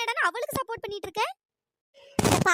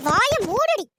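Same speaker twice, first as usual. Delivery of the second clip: angry shout; 6 dB louder, much slower than usual. Acted. Mother-in-law shouting her daughter-in-law into silence.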